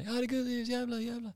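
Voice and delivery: high, sputtering angry customer; mock fury. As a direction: sputter curses in a hammed-up high voice. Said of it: "han är så jävla arg fortfarande".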